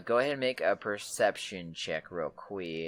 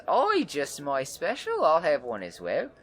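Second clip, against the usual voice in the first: red-haired woman; 6 semitones higher, 5 dB louder than usual. Acted. Woman orders her special drink, higher and gleeful. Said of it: "she says".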